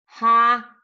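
"Ja" held out loud; stressed syllable alone. Shown as a demonstration. Teacher marking the accented syllable, "Ja" stressed and loud. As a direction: belt out "Ja" as one long syllable. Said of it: "Que no está al final".

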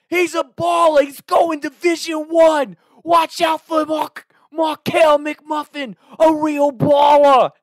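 high, booming New Jersey holler, words stretched; screamed Jersey heckle. Retold or imitated. Heckler in the cheering section taunting the best player, screaming in Jersey accent. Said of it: "that is to a T how it sounded".

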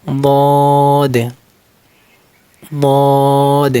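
বদ said deliberately, each sound clear; demonstrated letter. Shown as a demonstration. Teacher showing students how the letter sounds. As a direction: press out বদ with careful articulation. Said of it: "এদিক থেকে উচ্চারণ করতে হবে".

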